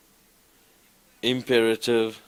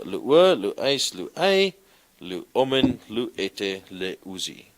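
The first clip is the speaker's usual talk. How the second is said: model recitation; 4 dB louder than usual. Shown as a demonstration. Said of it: "Recite it for me".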